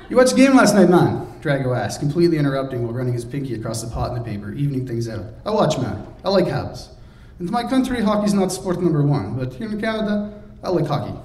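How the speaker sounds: keen foreigner seeking approval; hearty Drago. Acted. Drago's accented voice.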